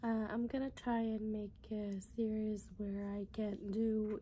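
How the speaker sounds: raspy, lost voice; talking through a hoarse, worn-out voice. Real, not acted. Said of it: "excuse my voice, I just lost it".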